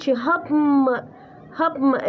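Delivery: "happen" as hab-m, repeated for dictation; N turned to M. Shown as a demonstration. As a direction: close the lips on a syllabic M at the end of "happen". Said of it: "ال N تحولت إلى M".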